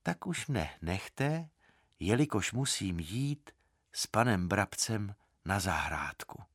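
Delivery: sleepy voice. Acted. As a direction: drift off as you say it. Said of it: "pravil ospalým hlasem".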